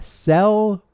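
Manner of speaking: "Selwyn" high, syllable by syllable; careful name check. Shown as a demonstration. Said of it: "Am I saying your name right?".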